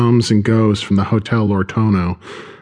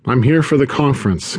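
put-on thick Russian accent; 4 semitones higher than usual. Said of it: "gravelly phrase in a thick Russian accent".

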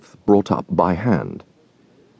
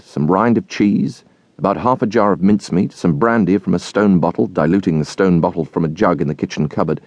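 ordinary delivery

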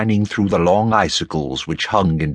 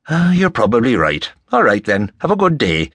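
lightly voiced affable Irishman, higher pitched; genial Rafferty; 4 semitones higher than usual. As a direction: bid a friendly, folksy farewell.

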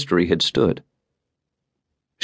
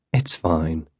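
reassuring; 3 semitones lower, 5 dB quieter than usual. A narrator's reading. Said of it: "Allison assured him".

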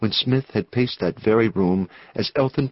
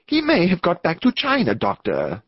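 high, urgent outburst dropping at the end; excited cry; 8 semitones higher than usual. A narrator's reading. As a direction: cry it as an alarmed warning. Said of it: "he cried".

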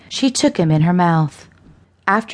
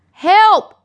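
high, loud scream for help; 14 semitones higher, 6 dB louder than usual. A narrator's reading. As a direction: scream out for rescue in terror. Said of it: "Lester screamed".

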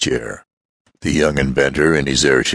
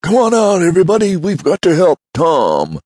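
rallying shout; 5 dB louder than usual. Acted. Damon rallies everyone to help.

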